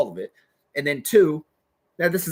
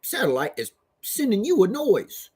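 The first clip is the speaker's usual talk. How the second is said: mocking imitation; slower than usual. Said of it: "That's how he says it".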